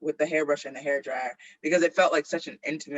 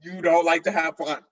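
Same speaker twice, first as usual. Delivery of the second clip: laughing; 4 semitones higher, 6 dB louder than usual. Real, not acted. Mocking the mom, laughing.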